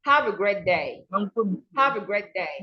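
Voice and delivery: "Have a great day" falling on a long "day"; falling intonation. Shown as a demonstration. Teacher modelling a simple statement, voice falling. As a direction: let "day" glide down, vowel held. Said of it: "falls when you make a simple statement".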